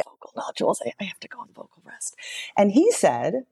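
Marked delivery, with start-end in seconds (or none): 0.0-2.1 barely voiced, hurting whisper; pained, softer whisper of bad news; painful whisper. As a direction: whisper it as if speaking hurts. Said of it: "very painfully".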